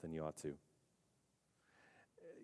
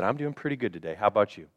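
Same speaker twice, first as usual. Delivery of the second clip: fake fine; faster than usual. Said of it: "And you said".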